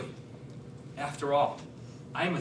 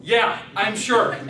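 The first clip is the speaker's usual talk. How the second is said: slow, louder hick drawl; Cletus sure; 6 dB louder, slower than usual. Acted. Cletus insists to the speaker, slow yokel drawl. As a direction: drag it out, dead certain. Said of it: "I'm Cletus".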